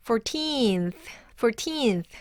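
put-on "fourteenth" with the weight on "teenth"; light first syllable, long "teenth" in "fourteenth"; second-syllable stress. Shown as a demonstration. Teacher modelling the word for learners, "fourteenth" stressed on "teenth". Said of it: "The stress is on the second syllable".

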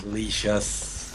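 slow, low, drawn-out villain whisper; creepy killer voice. Pretend. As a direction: savor the word like a hungry monster. Killer player taunts survivors. (음흉한 살인마 목소리)

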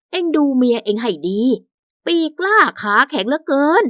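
lightly voiced scolding mother; domineering mother-in-law. Mother complains to her son about his wife, scolding. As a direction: complain as the offended owner of the house.

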